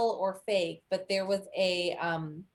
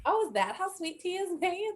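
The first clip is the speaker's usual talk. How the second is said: much higher, wide-eyed discovery; a pretend revelation; mock surprise; 10 semitones higher than usual. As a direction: act amazed at learning something. Retold discovery of the recipe.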